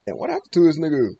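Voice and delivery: loud, startled question at the screen; sudden loud recognition; surprised outburst. Real, not acted. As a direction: blurt it out, caught off guard.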